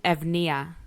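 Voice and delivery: "Evnia" said as ev-NEE-a; "Evnia" read out from Greek letters. Shown as a demonstration. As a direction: pronounce "Evnia" the Greek way, with v then n. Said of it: "looks like a V is an N".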